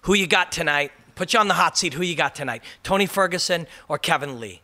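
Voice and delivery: lightly acted TV host handoff; Karen. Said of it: "Karen turns over to Rashad and she says".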